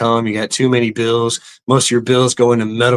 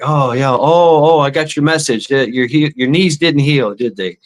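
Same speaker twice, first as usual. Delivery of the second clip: mock healer; 2 semitones higher than usual. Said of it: "he's like".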